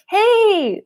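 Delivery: imitating a warm family greeting; friendly greeting. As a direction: call out a cheerful hey to family. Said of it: "be like".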